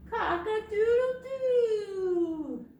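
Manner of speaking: high, loud, slow crow; loud rooster crow. Shown as a demonstration. Librarian crows with the kids to wake everybody, loud high crow. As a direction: belt it like a rooster at dawn. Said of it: "Say it nice and loud".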